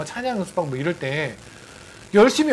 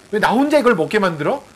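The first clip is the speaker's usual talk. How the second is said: mildly indignant acted complaint; half-serious, slightly raised reproach; mock angry; 3 semitones higher, 4 dB louder than usual. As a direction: play at scolding someone for not coming. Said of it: "막 화를 내요".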